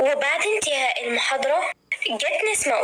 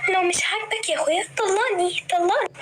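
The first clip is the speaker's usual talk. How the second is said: mock coy wife; 5 semitones higher than usual. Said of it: "كمل بمياسة وهو بيقول".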